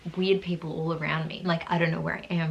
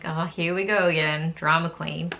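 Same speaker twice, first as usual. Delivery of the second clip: louder, mock-exasperated self-scolding; exasperated inner voice, louder; annoyed at herself; 4 dB louder than usual. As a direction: roll your eyes at yourself. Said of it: "so annoyed at myself".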